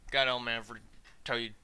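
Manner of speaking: lightly voiced mumbling Boomhauer; a hint of Boomhauer's fast bayou mumble. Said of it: "Boomhauer impression".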